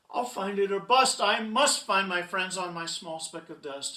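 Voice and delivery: loud, resolute vow; dogged storybook hero; determined. Acted. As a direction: push it out with urgent resolve. Horton vows to search.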